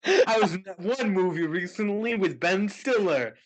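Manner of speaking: a hint of Sean Penn, mostly own voice; Sean Penn impression. Showing a friend another impression of Sean Penn. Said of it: "Here's another impression".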